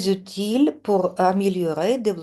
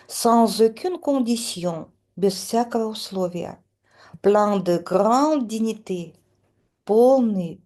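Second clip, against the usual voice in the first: poem recitation. Acted. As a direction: recite the verses solemnly, line by line. Reads poem with translation. (lecture solennelle d'un poème)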